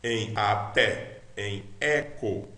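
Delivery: slow "até" and "eco" with open E, as eh; wide open-mid E on "até" and "eco". Shown as a demonstration. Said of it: "Epsilon é o E aberto".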